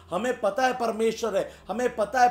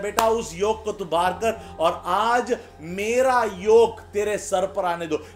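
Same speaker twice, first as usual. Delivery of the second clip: emphatic appeal. Acted. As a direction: urge it as Jesus pleading with his child. Preacher voices Jesus' urgent appeal. (ज़ोर देकर आग्रह, आख़िर में ऊँची आवाज़)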